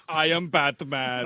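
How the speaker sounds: slow, hammed-up gravelly Batman growl. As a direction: play it like a mock Batman. Joke about driving the bus.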